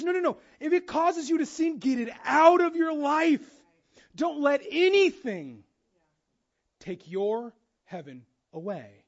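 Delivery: fervent preacher voicing Jesus; intense loud voicing. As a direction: plead with full force as Jesus.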